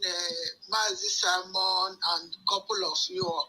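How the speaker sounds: caller heard through a phone speaker. Real, not acted. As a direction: talk down a speakerphone line. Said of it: "Let me put you on speaker".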